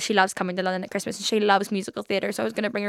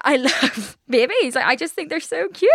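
gushing; 6 semitones higher, slower than usual. Real, not acted. Gushing over cute babies.

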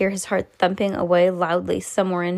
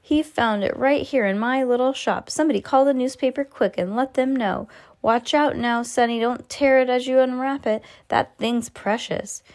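excited; 4 semitones higher than usual. Acted. Shopkeeper still excited.

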